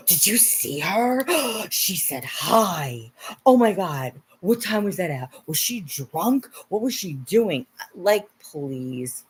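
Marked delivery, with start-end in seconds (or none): 0.1-7.7 slow, scandalized gossip; gossipy troll voice. Retold or imitated. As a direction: gasp and gossip like a nosy troll.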